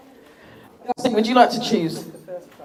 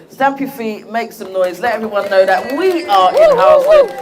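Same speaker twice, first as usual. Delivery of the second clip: rallying shout; 5 dB louder than usual. Real, not acted. Host rallying crowd to cheer.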